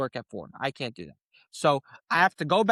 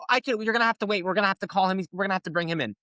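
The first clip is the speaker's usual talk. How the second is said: higher, lightly mocking district attorney voice; imitating the prosecutor; 5 semitones higher than usual. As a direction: play her as patronising. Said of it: "when she goes".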